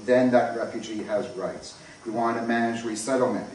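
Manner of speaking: ordinary talk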